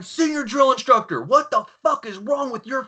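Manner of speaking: high-pitched imitated dressing-down; acted indignant tirade, pitched well up; mad officer. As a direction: play an outraged officer demanding answers. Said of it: "And he's mad".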